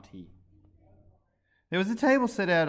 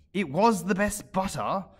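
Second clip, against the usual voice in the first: meek; 8 semitones higher, 6 dB louder, slower than usual. A narrator's reading. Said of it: "the March Hare meekly replied".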